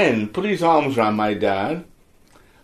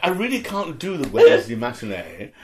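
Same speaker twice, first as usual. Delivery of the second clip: mock diva; 5 semitones higher than usual. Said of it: "and you don't say".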